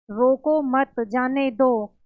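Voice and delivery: "रोको" drawn out, then a break before "मत जाने दो"; pause after रोको. Shown as a demonstration. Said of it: "full stop दे दिया".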